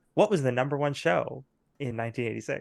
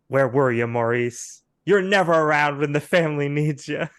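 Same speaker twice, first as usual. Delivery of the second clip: loud, reproachful soap brother; accusing outburst; 2 semitones higher, 7 dB louder than usual. Acted. Brother confronting Maurice, loud hammed-up reproach. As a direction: hurl the blame at him.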